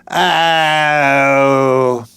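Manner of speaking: a drawn-out "Ow!" copying her Cockney vowel; imitating her "Ow". Note-taker reads back his notes, copying her Cockney "Ow!". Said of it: "reproducing her vowels exactly".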